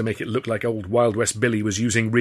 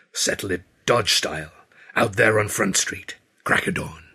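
Wild West Billy. A narrator's reading. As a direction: set the showdown like a Western gunman. Billy proposes a Western showdown.

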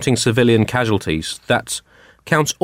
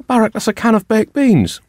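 higher put-on wife voice, exasperated; wife correcting; 9 semitones higher than usual. Wife telling Barack the beans are wrong, high put-on voice. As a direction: pitch it up to scold Barack. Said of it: "range of accents".

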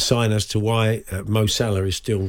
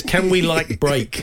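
put-on higher teen-style like; mock valley talk; 5 semitones higher, slower than usual. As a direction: borrow the teen like, teasing. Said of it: "The producer says".

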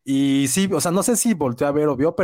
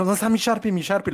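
higher, nervously searching, lightly acted; retold nervousness; 6 semitones higher than usual. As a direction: replay your own nervous fluster, pitched up. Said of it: "me puse bien nervioso y dije". (nerviosismo actuado, voz más aguda)

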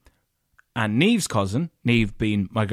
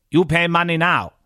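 firm, higher-pitched mock demand; curt demand; 6 semitones higher than usual. Hotel staff demanding money from two arriving guests, curt demand. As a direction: act out an insistent hotelier.

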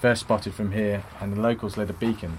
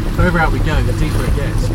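worried shouting; 5 semitones higher, 11 dB louder than usual. Acted. Car driving through deep water.

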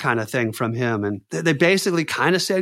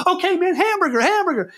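half-laughing panic. Retold or imitated. Panicked, laughing, using safe word.

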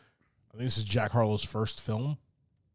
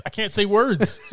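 laughing; 8 semitones higher, 6 dB louder than usual. Real, not acted. Laughing at own slip of tongue.

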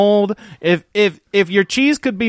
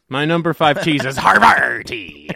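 Havarti drawn out pirate-style, hard rolled R; 2 semitones lower, slower than usual. Shown as a demonstration. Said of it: "I like to say it like a pirate".

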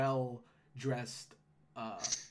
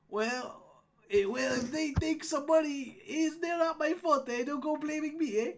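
higher-voiced gnome guard disclaiming blame; gatekeeper gnome, grudging; 13 semitones higher, 5 dB louder than usual. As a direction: give in and wash your hands of it.

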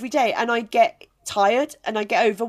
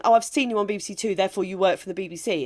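quick mock assumption; faster than usual. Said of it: "people think".

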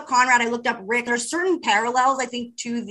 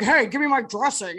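Olivia Wilde impression. Retelling a friend's Olivia Wilde impression, lightly voiced. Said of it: "your Olivia Wilde was very good".

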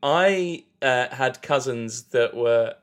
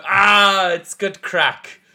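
mock group cheer; 6 semitones higher, 4 dB louder, much slower than usual. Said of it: "And then we all go".

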